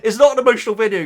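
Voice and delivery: laughing through a high, tearful wobble; half-laughing, half-choked up at his own reaction; laughing while emotional. Real, not acted. Vlogger laughing at himself over a prank video, high and tearful. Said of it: "I'm getting emotional".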